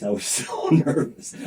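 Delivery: slow, airy laugh through the words; laughing while saying it. Real, not acted. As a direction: laugh it off nervously. Laughing at his own nerves.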